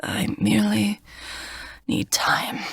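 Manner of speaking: breathless whisper; weak whisper. Acted. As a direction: barely whisper it, hurting. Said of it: "he gasps for breath".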